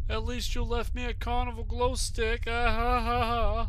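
fast, high sarcastic quip; mock it with a fake laugh. Real, not acted. Sarcastic remark then mock laugh.

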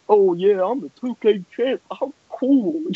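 light mock boast, "cool" lifted; mocking imitation. Rival mocking the champ's big talk, mocking.

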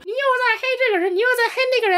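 very high squeaky mock whine; shrill nagging commenter parody. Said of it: "肯定会有人说".

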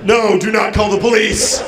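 mock-intimidating robot-killer voice; playful attempt at an intimidating voice; Terminator. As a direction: give a firm, lightly voiced movie-cyborg order. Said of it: "I give myself a Terminator voice".

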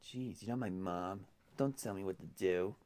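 groggy morning voice; just woke up, morning voice. Real, not acted. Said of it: "I still have morning voice".

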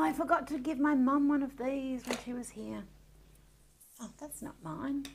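usual speaking voice

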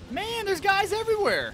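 frustrated outburst. Real, not acted. Ambushed in a shooter match.

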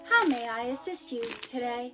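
robot line demo. Shown as a demonstration. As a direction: show the robot how to say it. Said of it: "Your line is".

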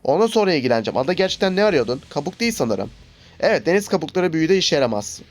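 lightly voiced reading of game lines; reading game dialogue. Gamer reads the cutscene text to viewers, lightly voiced. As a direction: read the cutscene aloud for viewers.

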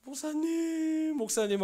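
high, stretched tearful call; imitating crying. Student sobbing on the phone to his pastor, imitated tearfully. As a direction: let the first word break into a sob. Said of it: "하면서 막 울길래".

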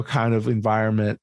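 ordinary talk

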